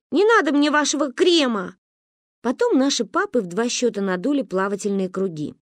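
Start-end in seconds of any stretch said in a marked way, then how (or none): 0.1-1.8 offended refusal. Acted. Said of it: "обиделась я".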